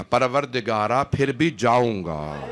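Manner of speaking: slow, stretched-out lament to God; retold tearful cry, words drawn long. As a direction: draw out each word as a mournful vow. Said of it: "بلند آواز سے گریہ کر کے کہا".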